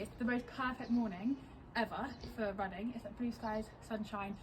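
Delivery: hushed morning voice; quiet. Real, not acted. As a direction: talk softly, people nearby.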